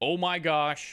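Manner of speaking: sarcastic put-on panic, high-pitched. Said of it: "That's what these bars say to me".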